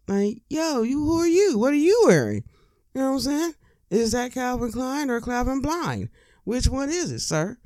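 hammed-up outraged fashion critic; mock snooty date. Rude first date roasting the outfit, high and mocking.

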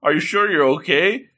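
high-pitched worried fussing; acted shock. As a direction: fret over someone in mock alarm. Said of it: "he's, he's shocked by all this".

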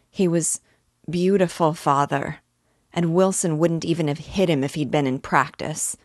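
gushing with admiration; excited boy. Acted. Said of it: "I could not find it at first".

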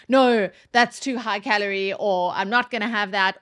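firm, mildly harsh no; acted blunt refusal. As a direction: turn it down bluntly, a touch too hard. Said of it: "without being so harsh".

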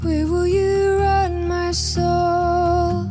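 usual speaking voice

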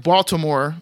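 slow "Baltimore" with every syllable sounded; standard pronunciation. Shown as a demonstration. Host giving the standard name, careful "Baltimore". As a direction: say "Baltimore" in full, with the t. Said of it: "but they say".

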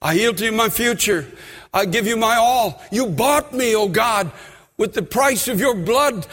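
leading a sincere prayer of surrender; sinner's prayer. Shown as a demonstration. Preacher models the prayer for the congregation, earnest. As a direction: pray it for them to repeat.

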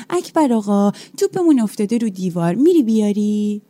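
a hint of a wheedling child; lightly voiced kids nagging the janitor; pleading schoolkid. Schoolkids asking janitor for ball.

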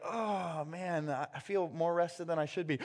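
just woke up, pleasantly rested; contented waking. Retold or imitated.

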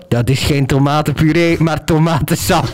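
measured announcer correcting someone, lightly imitated; Big Brother voice. Big Brother correcting a clueless housemate, lightly voiced. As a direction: play the all-knowing Big Brother voice. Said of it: "die Big Brother zo".

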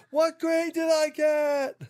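high, slow, drawn-out shouted demand. Acted. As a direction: bellow the question out slowly. Demanding the grade.

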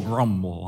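low, soft grumbled word; grumbling mutter. Retold or imitated. Pastor mimics a sulky grumbling answer, low and soft. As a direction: mutter it like a sulky teen after school. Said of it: "How was school".

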